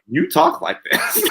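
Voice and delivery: very high, slow, loud mock retort; exaggerated high-pitched quoting voice; imitating wife's retort. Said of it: "April was like".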